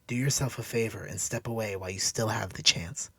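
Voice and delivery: a hint of a stern, earnest woman; understated firm woman's voice; Cassandra.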